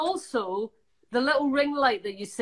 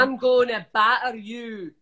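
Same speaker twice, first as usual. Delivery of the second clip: natural Scottish accent, shown for a learner. Shown as a demonstration. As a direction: model a Scottish threat. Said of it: "give me a Scottish thing to say".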